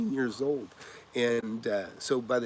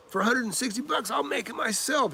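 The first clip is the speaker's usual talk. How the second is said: mild mock anger; 11 semitones higher than usual. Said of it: "And he got angry".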